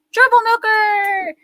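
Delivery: high, slow, loud, playfully stretched; excited call-out. Real, not acted. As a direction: sing out the name like a delighted greeting. Calling out a viewer's name.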